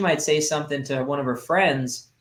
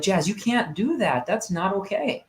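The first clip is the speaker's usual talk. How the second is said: a firm, higher-pitched telling-off; stern scolding; 5 semitones higher than usual. Retold or imitated. Dad scolds his daughter in the kitchen sternly. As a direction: snap the rule at a child. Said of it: "I probably could have worded that differently".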